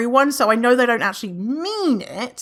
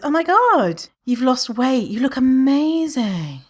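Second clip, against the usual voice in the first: mock gushing; 4 semitones higher than usual. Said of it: "imagine someone says".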